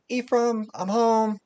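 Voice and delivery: high, bright calling-in voice; calling out home. Acted. Mother calling to her son from the door, high and ringing. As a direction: call him from the doorway.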